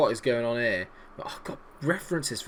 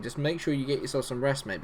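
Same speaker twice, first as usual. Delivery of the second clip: usual speaking voice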